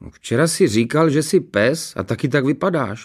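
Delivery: put-on high, wronged little boy; aggrieved protest. A narrator's reading. Son arguing back at his father, aggrieved. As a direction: protest as if unfairly blamed. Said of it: "protestoval ukřivděně Honzík".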